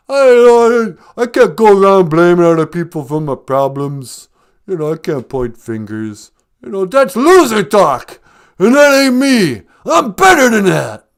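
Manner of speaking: loud, high boxer pep talk; fired-up shouting. Acted. Film star refusing to blame others, fired-up shout. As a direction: holler it with punchy conviction.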